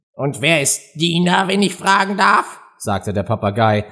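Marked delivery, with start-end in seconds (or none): 0.1-2.6 high, polite question; inquiring parrot. A narrator's reading. Parrot asks Alice who Dina is, politely curious. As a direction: ask with rising, courteous curiosity.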